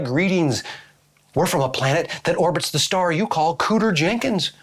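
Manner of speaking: a lightly put-on alien voice; stiff, formal alien greeting. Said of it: "I've never done an alien impression before".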